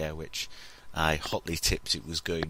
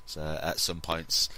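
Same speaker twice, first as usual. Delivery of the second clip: hoarse, husky from a cold; croaky with man flu; 3 semitones lower than usual. Real, not acted. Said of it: "with how husky it is".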